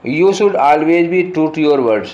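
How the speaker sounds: reading the sentence very slowly, word by word; slow dictation read. Shown as a demonstration. Teacher reading the question sentence to students, very slow and deliberate. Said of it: "reads the exam sentence aloud".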